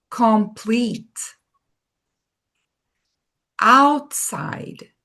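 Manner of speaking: two-syllable English words read one by one for echoing; teacher leading the two-syllable word drill; model words to repeat. Shown as a demonstration. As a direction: read each word cleanly with a pause after it. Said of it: "vamos fazer com duas sílabas".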